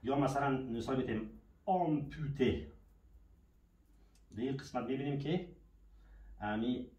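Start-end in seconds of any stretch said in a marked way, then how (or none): 1.7-2.7 slow drawn-out "آمپوته" opening on AW. Shown as a demonstration. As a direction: stretch each syllable of "آمپوته", first one an open آ. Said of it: "صدای آ را داده". («آمپوته» شمرده، با آ در هجای اول)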